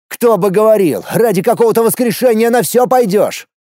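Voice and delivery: loud, stubborn shout; angry yell. A narrator's reading. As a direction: push his sister away. Shouting back at sister.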